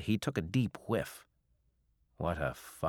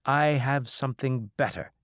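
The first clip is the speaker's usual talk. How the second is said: higher-pitched, cheery tease; cheerful; 7 semitones higher, 4 dB louder than usual. Acted. Captain pitching wares to his angry creditor, cheerful. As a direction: offer it brightly, undaunted. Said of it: "Wathayat said cheerfully".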